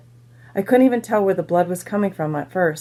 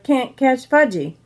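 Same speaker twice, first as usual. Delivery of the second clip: put-on higher, drawn-out toddler taunt; hollered taunt; 5 semitones higher, slower than usual. A narrator's reading. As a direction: stretch out a playful taunt. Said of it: "he hollered".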